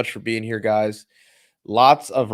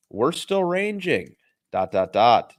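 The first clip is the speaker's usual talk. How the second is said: show title; slower than usual. Acted.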